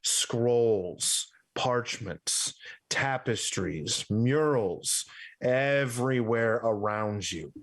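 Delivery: slow, drawn-out descriptive narration; game master's scene setting. Acted. Game master revealing a grand library to the players, scene setting. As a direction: linger on each item in the list.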